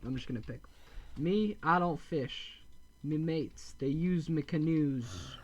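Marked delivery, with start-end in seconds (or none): 1.2-5.4 slow gruff pirate-ish villager voice; pirate accent. Acted. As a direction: drag it out like an old sea dog. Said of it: "I don't know why I gave him that accent".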